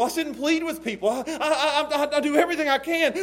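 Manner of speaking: laughing through the words; preacher laughing at his own effort. Real, not acted. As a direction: chuckle while you plead.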